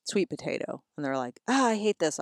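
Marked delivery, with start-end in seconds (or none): 1.5-2.2 mock child's protest, higher pitched; mild mimicked complaint, pitched up. Kids refusing the sweet potato they're fed, mock protest.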